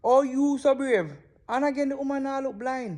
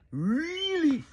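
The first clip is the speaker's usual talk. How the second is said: "really?" short and higher, questioning; disbelieving question; 4 semitones higher than usual. Real, not acted. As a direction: snap back with a quick, higher "really?". Stunned reaction to the clip.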